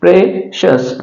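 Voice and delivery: sh sound in प्रेशियस; clear pronunciation. Shown as a demonstration. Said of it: "प्रेशियस पढ़ेंगे".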